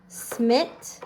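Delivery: slowly sounding out smit; slow syllable split. Shown as a demonstration. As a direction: stretch the first syllable. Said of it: "draw his line dividing the word".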